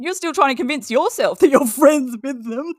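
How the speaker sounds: talking through scornful laughter; laughing scornfully. Real, not acted. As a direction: laugh at her as you say it. Laughing at Katie's delusion.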